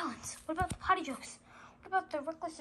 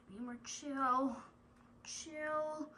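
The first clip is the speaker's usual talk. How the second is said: fading repetition; 8 dB quieter, slower than usual. Acted. Repeating phrase, fading out.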